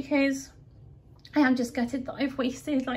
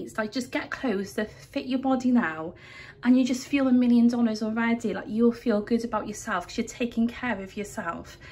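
earnest, slightly raised pep talk; impassioned rant; 4 dB louder than usual. Real, not acted. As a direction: urge them on in a heartfelt rant. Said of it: "that was a big rant".

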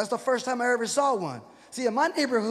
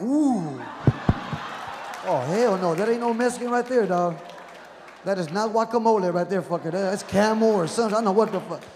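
disgusted loud reaction; 2 semitones lower, 4 dB louder than usual. Acted. Reacting to the smell.

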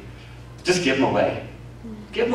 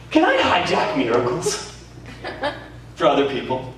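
laughing question; 3 semitones higher than usual. Retold or imitated. Preacher quotes himself, laughing.

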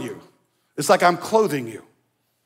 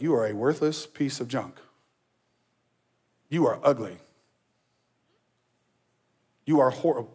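cruel inner voice; 4 semitones lower, 4 dB quieter than usual. Retold or imitated. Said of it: "We don't address ourselves like this".

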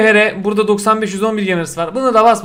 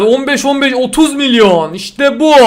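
pleased; 4 semitones higher than usual. Real, not acted. Pleased with pack value.

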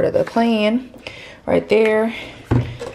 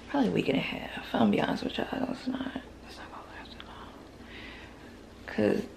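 confiding whisper; 2 semitones lower, 14 dB quieter, much faster than usual. Real, not acted.

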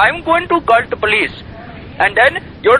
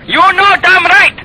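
put-on high, loud yell in the Indian accent; screamed in the Indian accent; shout; 10 semitones higher, 5 dB louder than usual. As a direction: blast it down the phone. Shouting match on the phone.

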